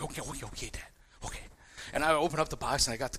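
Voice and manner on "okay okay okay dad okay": impatient. Retold or imitated. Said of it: "I was like".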